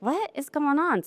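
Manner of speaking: half-mocking disbelief at the lab results; retelling her confusion at the lab results, with a touch of surprise; puzzled. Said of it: "And I was like".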